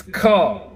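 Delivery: "ka" said as a long, open kah; sounded-out syllable. Shown as a demonstration. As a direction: sound out "ka" with a drawn-out ah. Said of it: "begins with C H A".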